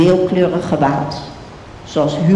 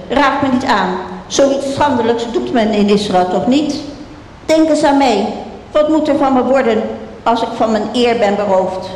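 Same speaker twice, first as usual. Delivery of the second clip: higher, pressing plea to reason with him; desperate pleading; 5 semitones higher than usual. Acted. Tamar begs Amnon to spare her, higher desperate pleading. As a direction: beg him, voice lifted high. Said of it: "riep ze".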